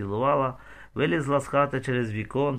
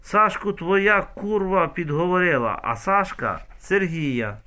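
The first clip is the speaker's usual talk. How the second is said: shout; 6 semitones higher, 3 dB louder than usual. A narrator's reading. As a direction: yell it out as proof. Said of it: "Раїса кричить і далі".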